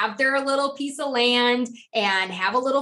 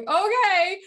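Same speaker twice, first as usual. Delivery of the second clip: retold concession; 8 semitones higher than usual. Acted reply conceding to husband.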